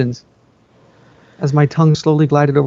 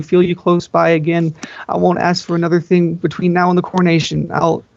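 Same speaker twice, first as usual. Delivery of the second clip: higher, desperate begging through a door; pleading younger sister; 4 semitones higher than usual. Acted. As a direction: plead with the sister who won't answer.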